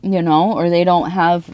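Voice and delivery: talking while crunching ice; words round a mouthful of ice; chewing ice. Real, not acted. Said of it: "like, I'm chewing my ice".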